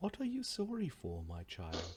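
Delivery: warm, sing-song motherly tone. Game master voicing an unseen speaker to a kneeling character; beautiful motherly voice. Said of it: "you hear this beautiful motherly voice".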